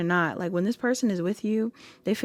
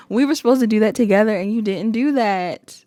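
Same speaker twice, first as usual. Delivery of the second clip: louder mock whine; whining; 6 dB louder than usual. Imitating the upset partner whining, louder. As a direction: complain like a sulky big baby. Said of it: "somebody that's whining".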